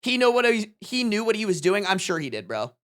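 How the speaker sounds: normal talking voice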